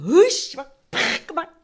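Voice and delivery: loud, slow, furious, fuming grumble. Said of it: "막 화나가지고".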